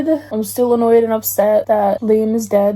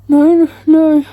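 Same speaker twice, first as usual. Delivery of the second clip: worried, rising plea; anxious pleading; 3 semitones higher, 3 dB louder than usual. Real, not acted. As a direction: beg them not to, dreading tears. Dreads a character's death while reading.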